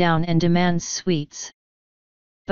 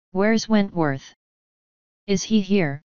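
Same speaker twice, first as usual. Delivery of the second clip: urgent worry. Acted. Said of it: "her mother asked urgently".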